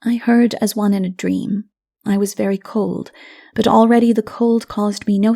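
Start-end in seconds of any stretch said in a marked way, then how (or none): none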